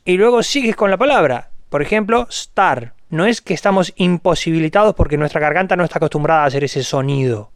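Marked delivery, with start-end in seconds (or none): 2.3-2.9 star begun straight on the s, no e; clean star. Shown as a demonstration. Showing it's easy, star without a vowel. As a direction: start on s and run into the word star. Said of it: "empiezas con el sonido s".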